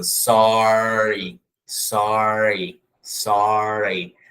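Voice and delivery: "sorry" com R bem enrolado, ponta da língua pra trás; retroflex R. Shown as a demonstration. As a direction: exagere o R de "sorry". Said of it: "Aqui vai acontecer a mesma coisa". (R enrolado exagerado)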